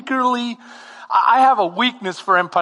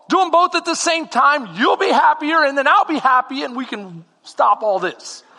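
mock lecture; 6 semitones higher than usual. Lecturing the manager.

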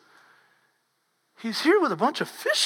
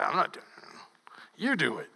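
softer, breathy whisper to a friend; whispered dodge; 6 semitones lower, 9 dB quieter than usual. Retold or imitated. Disciples dodging the fish counting, whispered. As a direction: whisper so nobody else hears.

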